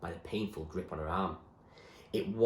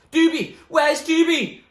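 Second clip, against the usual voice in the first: high, loud searching shout; calling out; 15 dB louder, slower than usual. Acted. Someone below calls for Doobie, loud. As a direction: call up from the nave. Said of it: "Someone was calling for him".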